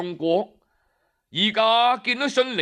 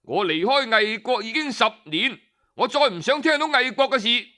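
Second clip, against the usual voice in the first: a mildly raised, irritated voice; angry outburst; 3 semitones higher than usual. Acted. Lord Xinling cutting off his two friends, mildly angry. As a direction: snap back, fed up with hearing it. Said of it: "就發火啦".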